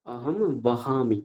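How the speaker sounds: অহম বহামি said slowly, ম into nasal ব; slow model phrase. Shown as a demonstration. Teacher giving a new example, slow. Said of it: "একটা উদাহরণ আমরা নিতে পারি".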